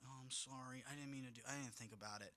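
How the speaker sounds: a guilty pet saying sorry, hushed; sheepish apology. Pretend. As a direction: pretend kid mumbling sorry. Voicing a remorseful kid or pet.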